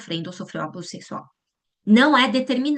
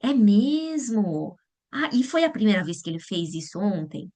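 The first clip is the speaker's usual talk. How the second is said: slow, calm reply; calm and serene; slower than usual. Shown as a demonstration. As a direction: stay calm and gently ask. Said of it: "com calma e serenidade falar assim". (calma e serenidade, devagar)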